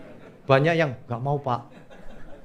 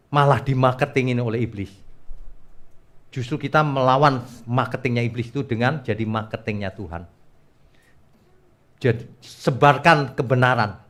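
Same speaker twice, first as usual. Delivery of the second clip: normal talking voice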